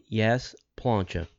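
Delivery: dictating slowly and clearly; slow, clear dictation. Shown as a demonstration. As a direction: spell it out slowly. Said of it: "just put in the subject line".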